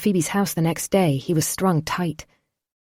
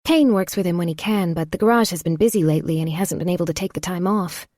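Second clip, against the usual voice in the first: put-on young woman voice; 2 semitones higher than usual. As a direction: lift into a woman's voice. Phoebe voiced higher.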